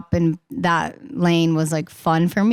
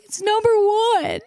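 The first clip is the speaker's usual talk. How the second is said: high, squealed announcement of the news; squealing with joy; faster than usual. Retold or imitated. On the phone to her parents, squealed joyful news. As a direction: shriek it out like overjoyed tears. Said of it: "scream crying on the phone".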